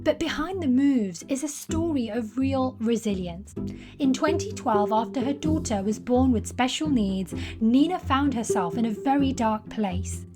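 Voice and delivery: measured, polished host voice-over; podcast intro narration. Acted. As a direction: read a scripted guest introduction with deliberate emphasis. Reads scripted podcast introduction.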